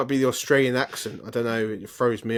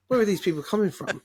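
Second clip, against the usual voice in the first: incredulous inner thought; 8 semitones higher than usual. Retold or imitated. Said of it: "I'm thinking".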